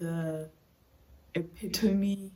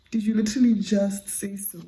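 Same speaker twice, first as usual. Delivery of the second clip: incredulous; 11 dB louder than usual. Real, not acted. Calling out the heroine.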